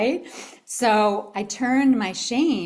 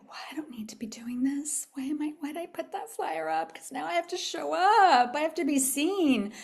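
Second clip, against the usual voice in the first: retold dread; 8 semitones higher than usual. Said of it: "and the dread".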